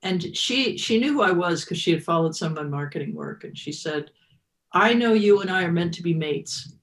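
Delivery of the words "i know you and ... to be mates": imitating a friend's Northern English accent; lightly imitated Northern English accent. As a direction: quote her with a touch of Northern English. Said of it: "this great Northern English accent".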